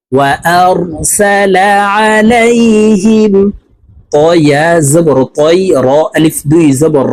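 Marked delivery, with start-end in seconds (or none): 0.1-3.5 وأرسل عليهم slow, rising higher; syllable blend. Shown as a demonstration. Teacher blends the spelled syllables into وأرسل عليهم. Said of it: "spelling lesson".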